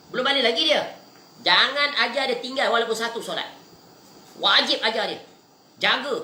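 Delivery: urgent religious admonition, pitched high; emphatic preaching. Real, not acted. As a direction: exhort parents firmly, stressing each duty. Exhorts parents about prayer.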